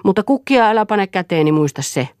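emphatic outburst in a quarrel; insistent demand. A narrator's reading.

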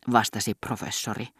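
ordinary delivery

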